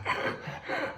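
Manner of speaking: voiceless wheezes for breath; speechless gasping. Retold or imitated. Boxer trying to answer his trainer, breathless wheeze. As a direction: act too winded to get words out. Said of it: "I can't even speak".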